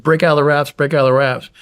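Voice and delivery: urgent yell. Retold or imitated. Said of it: "I still start yelling at Mark".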